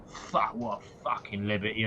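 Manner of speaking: a quietly muttered satyr grumble; under his breath. Acted. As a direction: mutter it so only he hears. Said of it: "under his breath".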